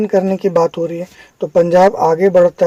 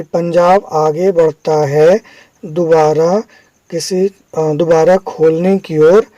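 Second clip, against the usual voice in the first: slow demo reading. Shown as a demonstration. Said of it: "मैंने पढ़ा".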